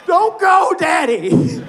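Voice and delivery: put-on high, loud child-like wail; mock desperate plea. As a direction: cry after a father walking out. Fan's yell becomes child's plea.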